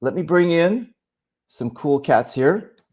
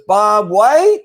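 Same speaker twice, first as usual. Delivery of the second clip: calling back; 6 semitones higher, 6 dB louder than usual. Retold or imitated. Another camper calling across park.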